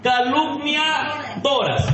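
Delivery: each syllable stretched very slowly; slow, drawn out. Shown as a demonstration. Preacher drawing out the word for the women, very slow. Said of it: "te lo voy a leer en cámara lenta".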